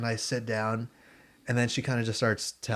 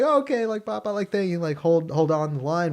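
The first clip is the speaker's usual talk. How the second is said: radio host voice; 7 semitones higher than usual. Retold or imitated. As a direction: pitch tickets like a perky host. Radio host thanking caller.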